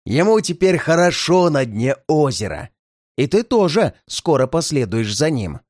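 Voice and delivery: snide. Acted. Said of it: "Рыжий ехидно рассмеялся".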